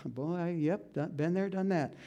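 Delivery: soft, knowing sigh of a man who's been there; a touch of rueful resignation; rueful men. Retold or imitated. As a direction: mutter it like an old lesson learned. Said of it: "some men here going".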